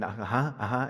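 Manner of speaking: low, half-listening murmur; absent-minded agreement. Retold or imitated. Husband half-listening to his wife talking, absent-minded. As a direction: agree without really hearing. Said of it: "She's talking to me and then".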